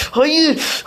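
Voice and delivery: shocked gasp breaking into a laugh; disbelieving gasp and laugh; gasp then laugh. Real, not acted. Fails jump, gasps and laughs.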